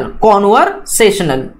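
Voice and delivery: कन्वर्सेशनल with con and sa both stressed, a bit slow; slow कन्वर्सेशनल hitting both stressed syllables. Shown as a demonstration. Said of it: "दोनों भी जो syllables है उसको आपको stress करना है".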